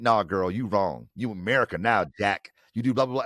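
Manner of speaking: a touch of mocking, loud dismissal; dismissive sass. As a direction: brush her off with mild sass. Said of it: "as opposed to saying".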